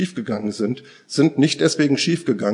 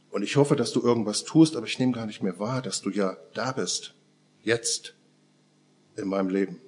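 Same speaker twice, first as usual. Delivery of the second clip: hushed prayer; 2 semitones lower, 5 dB quieter than usual. Pretend. Voicing a confessional prayer.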